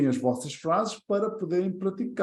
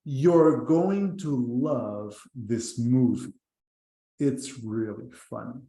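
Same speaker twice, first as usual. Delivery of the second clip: very slow, careful English sentence; slow demo reading; 3 semitones lower, slower than usual. Shown as a demonstration. Teacher modelling slowly for students. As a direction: spell it out slowly for the class. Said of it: "Ou então".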